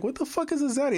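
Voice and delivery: mock bewilderment at an unknown word; baffled. Puzzled man retelling his reaction to new slang, baffled.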